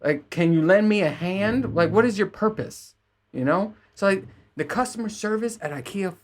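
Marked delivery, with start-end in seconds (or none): 0.0-3.0 high, exasperated demand to the worker; exasperated outburst. Retold or imitated. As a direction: vent it up high in disbelief. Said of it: "And I'm like".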